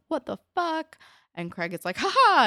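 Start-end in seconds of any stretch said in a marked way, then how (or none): 0.1-1.0 higher, startled what the fuck; shocked outburst. Retold or imitated. Sean shocked at Craig on the tracks. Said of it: "Sean's like". 2.0-2.4 high, loud manic ha ha; maniacal laugh. Retold or imitated. Craig laughing maniacally as he runs off. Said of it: "Laughing maniacally".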